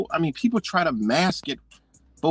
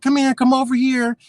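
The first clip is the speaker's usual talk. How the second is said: higher, louder, a curt summons across the counter; mock the rude clerk barking people over; bossy clerk call; 8 semitones higher, 5 dB louder than usual. Quoting the rude DMV clerk.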